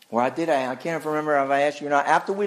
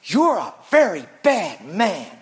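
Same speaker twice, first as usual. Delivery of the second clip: Dorothy's accusation; 3 semitones higher, 4 dB louder than usual. Retold or imitated. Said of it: "and she says".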